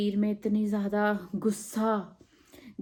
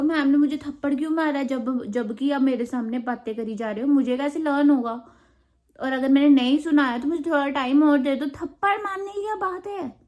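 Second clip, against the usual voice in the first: indignant protest; 4 semitones higher, 4 dB louder than usual. Retold or imitated. Child arguing back at mom.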